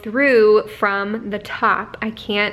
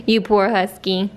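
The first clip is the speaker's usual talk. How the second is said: usual speaking voice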